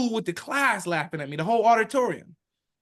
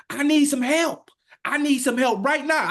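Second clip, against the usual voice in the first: scream; 8 semitones higher, 5 dB louder than usual. Retold or imitated. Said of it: "and I screamed".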